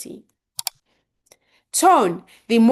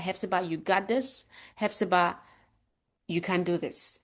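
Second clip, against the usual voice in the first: self-encouraging; 6 dB quieter than usual. Shown as a demonstration. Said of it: "remind myself".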